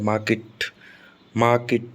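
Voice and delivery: मार्केट with long stressed मा, silent r; stress on first syllable. Shown as a demonstration. Teacher repeating the example, मार्केट stressed on मा. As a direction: lean on मा in मार्केट. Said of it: "तो माँ पर stress आ रहा है".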